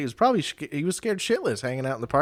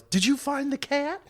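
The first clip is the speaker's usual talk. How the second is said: mock yell; slower than usual. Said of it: "she just yells".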